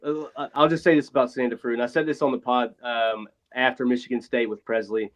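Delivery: thin tinny sound, no bass; like talking from a phone booth. Real, not acted. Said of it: "you sound like you're in a phone booth".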